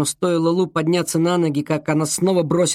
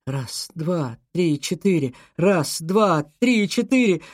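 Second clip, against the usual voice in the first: rising desperation; 3 semitones higher, slower than usual. Acted. Girl counts, growing desperate.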